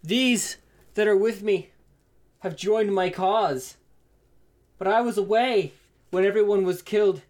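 lightly voiced orc father, measured phrases; orc father character. Orc father explaining his absence to his daughter, lightly voiced.

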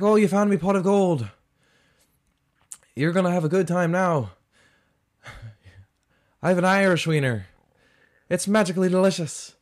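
high, loud cartoon leprechaun. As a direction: squeal it out like a giddy leprechaun. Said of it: "He's like".

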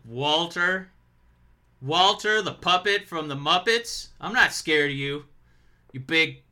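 trash-talking wrestling promo; mock-tough heel taunt. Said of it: "I wanna try and cut a promo".

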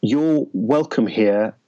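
slow. Shown as a demonstration. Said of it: "didn't understand till years later".

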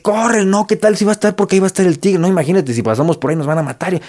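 a jumpy inner voice warning of the tiger; fearful inner voice. Retold or imitated. Caveman's inner voice warning him off the path, lightly acted panic. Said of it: "los pensamientos negativos de".

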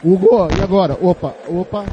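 loud call over a breaking line; shouting on bad phone line. Real, not acted. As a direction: raise the voice to be heard. Reporter can't hear, calling again.

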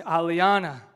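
loud, sharp call of a name; stern call. Shown as a demonstration. Pastor calling his daughter sharply to attention, loud. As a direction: call her name like you mean it. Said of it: "a difference when I start clapping".

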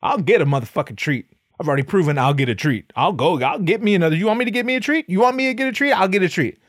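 rising indignant disbelief; hammed-up outrage building up; worked-up husband. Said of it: "And he's like".

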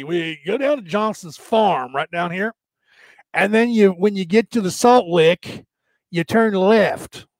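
put-on country bumpkin in a light Southern accent; hint of a Southern backwoods accent. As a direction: give directions in a folksy Southern accent. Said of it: "I love to use that accent".

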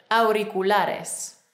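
"Auriculares" very slowly, each syllable clear; whole-word model. Shown as a demonstration. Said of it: "Ahora la palabra completa".

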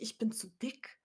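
a soft whisper with no voice behind it; the voice in her head saying she looks too fat, whispered; whispered inner doubt. Retold or imitated. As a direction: whisper it like a doubt you're ashamed of.

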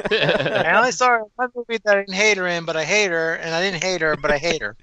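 laughing mock parody of her; mocking imitation. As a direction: parrot her words back mockingly. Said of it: "That made a lot of sense".

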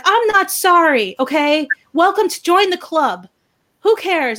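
lightly voiced unapologetic woman; imitated defiance. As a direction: mimic her brushing it off.

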